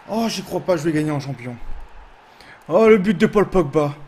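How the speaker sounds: can't believe the win, shout it; thrilled disbelief. Real, not acted. Celebrating the winning goal.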